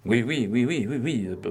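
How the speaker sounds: stammering. A narrator's reading. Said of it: "balbutia Beautrelet".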